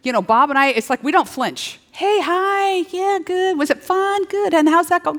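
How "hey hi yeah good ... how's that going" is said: breezy friendly greeting. Acted. Acting out greeting A-list friends casually.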